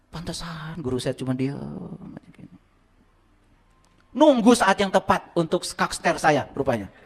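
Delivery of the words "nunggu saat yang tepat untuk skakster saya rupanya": chuckling through the line, a bit slow; laughing. Real, not acted. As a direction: laugh at yourself while telling it. Laughs at own story. (sambil tertawa)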